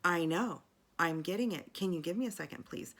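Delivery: pleading while out of breath. Retold or imitated. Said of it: "I'm out of breath".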